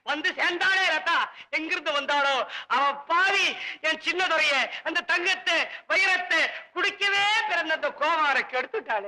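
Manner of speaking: hammed-up tearful lament; mock weeping lament. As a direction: bewail a ruined drinking companion, theatrically. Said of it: "அதுக்கு நீ ஏன் அப்படி அழுவுற". (போலி அழுகையோடு புலம்பல்)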